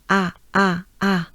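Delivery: "A" as a wide open French "ah", repeated separately; exaggerated open vowel. Shown as a demonstration. Teacher showing the French letter A, exaggerated. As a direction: open right up on each "A". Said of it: "just exaggerate those vowels".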